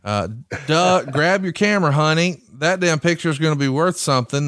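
goofy Southern drawl, quoted. Retold or imitated. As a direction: read with a lazy Southern drawl. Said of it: "then you do a Southern drawl".

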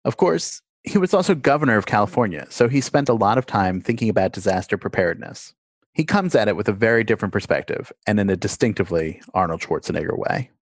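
measured host's intro read, lively pitch at phrase starts; scripted podcast narration. Acted. Host introduces listeners to a call with Arnold Schwarzenegger, scripted narration.

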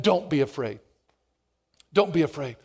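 hushed tender don't be afraid; soft, gentle comfort. Acted. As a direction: say it like a hand on the shoulder. Jesus touching frightened disciples.

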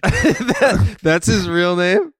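high, loud, incredulous question; laughing, high-pitched disbelief; real disbelief. Real, not acted. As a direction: ask it in amused astonishment, drawn out.

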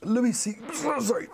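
coughing, choked up; sputtering after swallowing wrong; choking on a drink. Real, not acted. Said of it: "it went down the wrong pipe".

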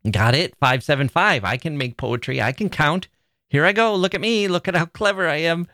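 mocking, smug show-off voice rising high; high, gloating mock boast. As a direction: sneer as a self-satisfied poet. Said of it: "It's saying".

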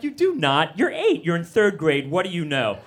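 mock-scornful dad putting a child down; nasty to kid. Upset dad dismisses his eight-year-old's claim, mock nasty. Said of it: "you're nasty to your kids".

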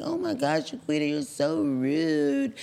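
high, slow, wounded mock pearl-clutching; offended white lady. The white lady, offended at being corrected, high and slow. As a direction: play the hurt neighbour, overdone. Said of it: "And she was like".

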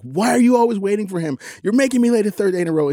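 put-on high, fast, exasperated teen girl; imitating daughter blowing up. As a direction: mimic Georgia snapping from the back seat. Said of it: "she blew up at me".

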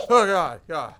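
ordinary delivery

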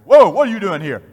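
loud, high "whoa" sliding down; acted-out shout of challenge; startled challenge. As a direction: call out as the startled stranger. Acting out startled street man challenging him.

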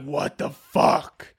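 fed-up Italian plumber, drawn-out grumble building to exasperated yells; grumble, yell in exasperation, then ease off grudgingly; put-upon working man's mock outburst; Mario, upset. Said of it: "he needs to be like".

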